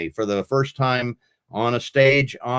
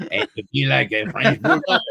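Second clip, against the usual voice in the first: put-on French accent; 8 semitones higher than usual. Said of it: "in another French accent".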